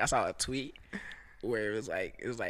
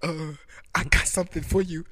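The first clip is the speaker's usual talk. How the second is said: mock caller; 3 semitones higher, 10 dB louder than usual. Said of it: "It's like".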